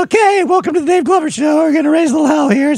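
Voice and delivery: high, hyped radio host intro; old radio DJ voice. Retold or imitated. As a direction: pitch up and sell the intro. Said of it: "it was about like this".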